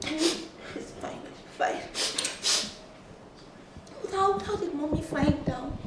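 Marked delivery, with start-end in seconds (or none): 0.1-1.8 whispered reassurance. Acted. Crying sister comforted.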